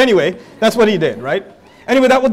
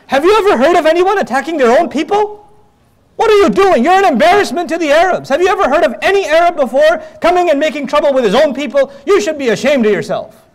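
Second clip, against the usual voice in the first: a mock angry rebuke, pitched higher; retold yelling; 4 semitones higher than usual. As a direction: scold him like an outraged elder. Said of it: "He's yelling at the Prophet".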